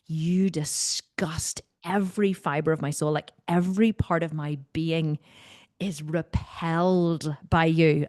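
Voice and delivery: dramatic disgust. Retold or imitated. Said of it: "I really put a lot of power behind it".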